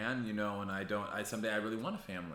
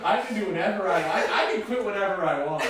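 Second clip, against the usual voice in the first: mock defiance; 9 semitones higher, 9 dB louder than usual. Real, not acted. Mocking friend's claim.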